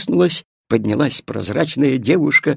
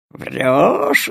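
growling dog voice. Acted. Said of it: "зарычал пёс Тиво".

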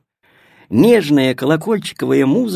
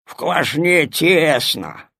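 grumbling bread; slower than usual. Acted. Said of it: "проворчал хлеб".

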